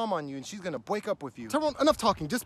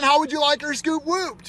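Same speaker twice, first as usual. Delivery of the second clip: hyped greeting; 5 semitones higher, 5 dB louder than usual. Shown as a demonstration. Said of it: "can you do it again".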